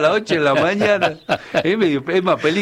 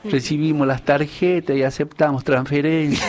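verse recital. Acted. The speaker performs his 25 de mayo lines for the hosts, reciting verse. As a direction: recite a homemade folk verse. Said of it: "le he hecho unas líneas".

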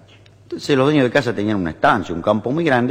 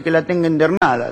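Italian husband lamenting; 4 semitones higher than usual. Acted. Italian husband answering neighbour about his wife, mock lament. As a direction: lament theatrically with an Italian accent. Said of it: "Hay un italiano".

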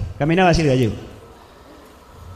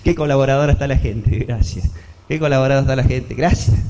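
blind beggar thanking; 3 semitones lower than usual. Acted. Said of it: "ese cieguito que pedía colaboración y decía".

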